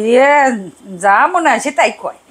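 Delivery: mild Sirajganj dialect impression; imitating Sirajganj dialect. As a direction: quote the house helper in her Sirajganj speech. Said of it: "আমার বাসার যে সাহায্যকারী ... সে বলে কি".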